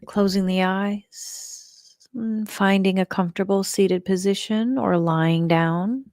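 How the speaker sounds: measured meditation guide with long pauses; guided meditation. Shown as a demonstration. Leader settles the group to let go and create space, guided meditation. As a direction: guide them gently, leaving room between phrases.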